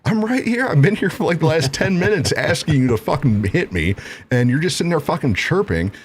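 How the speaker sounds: high-pitched, acted angry retort; exasperated challenge. Acts exasperated retort in quarrel.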